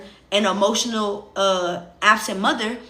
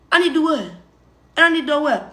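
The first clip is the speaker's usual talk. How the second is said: indignant demo; 4 semitones higher than usual. Shown as a demonstration. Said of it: "Instead of".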